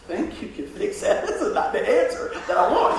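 half-laughed, disbelieving reply; laughing disbelief. Retold or imitated. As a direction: laugh off the doctor's promise. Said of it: "he goes".

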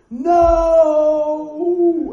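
loud, high cry of alarm; shouted no. Retold or imitated. Instructor yells at the student being flipped, loud and high. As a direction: yell it to stop the fall.

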